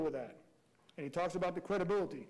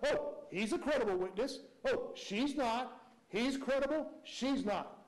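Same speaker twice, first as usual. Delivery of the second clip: sing-song mock, higher, drawn-out Oh; mocking defense lawyer; 4 semitones higher, slower than usual. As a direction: parody a lawyer vouching for witnesses, slowly. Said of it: "defense counsel commenting about".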